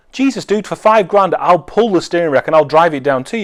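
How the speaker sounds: high, eager disbelief; excited. Retold or imitated. Seller jumping at a five grand offer, high and eager. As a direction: jump at the offer.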